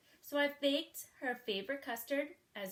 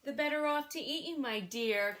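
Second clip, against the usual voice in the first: triumphant cry; 3 semitones higher, 4 dB louder than usual. Acted. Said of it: "cried the wolf".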